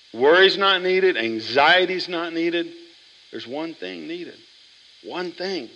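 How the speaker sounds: a preacher driving home one thing; slow emphatic preaching. Real, not acted. Preaching the key point slowly.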